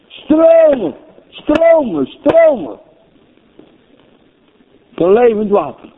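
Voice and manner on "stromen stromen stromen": high, ringing repeated cries; fervent proclamation. Real, not acted. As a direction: call out each word like a wave. Fervent repetition of preached word.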